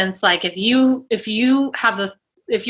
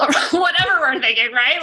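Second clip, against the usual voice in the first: laughing; 5 semitones higher, faster than usual. Real, not acted. Laughing at own example.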